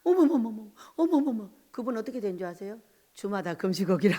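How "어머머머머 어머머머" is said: amazed exclamation. Retold or imitated. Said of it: "그랬더니".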